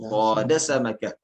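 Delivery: "Soda samakah" as a model with held long vowel; lengthened vowels. Shown as a demonstration. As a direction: draw out the first vowel of "Soda". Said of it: "Agak dipanjangkan".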